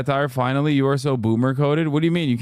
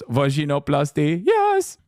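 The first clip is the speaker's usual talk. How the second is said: mock movie line. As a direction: imitate the doctor, yelp the yes. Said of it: "where the doctor goes".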